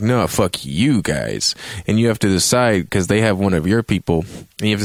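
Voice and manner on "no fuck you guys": slow comeback. Retold or imitated. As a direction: drag it out coolly to top them. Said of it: "And they're like".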